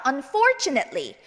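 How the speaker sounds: slow model "Unfortunately", stress on FOR; short "net" ending. Shown as a demonstration. Teacher modelling for repetition, slow and clear. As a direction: say "Unfortunately" slowly as un-FOR-chu-net-lee. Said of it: "한 번 더".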